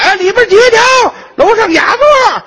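high, drawn-out hawking call; old-time waiter calling guests upstairs; old-time waiter's call. Retold or imitated. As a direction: sing it out like an old teahouse waiter. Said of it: "过去喊".

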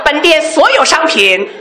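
chanted closing-sale pitch; store loudspeaker hawking. Pretend. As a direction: cry it out like a looped shop ad. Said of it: "什么样啊？".

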